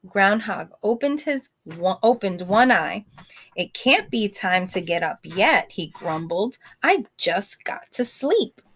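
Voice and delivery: gentle read-aloud voice; storybook reading to a class; story narration. A narrator's reading. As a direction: read it like a bedtime story for children. Reads picture book to kids.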